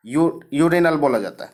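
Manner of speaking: यूरिनल whispered as if it were a slightly embarrassing word. Acted. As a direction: drop to a confiding whisper on urinal बोला जाता है. Teacher explains urine spelling. (फुसफुसाकर, झेंपते हुए)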